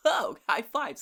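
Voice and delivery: camp counselor. Acted. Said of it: "you're like a fucking camp meeting".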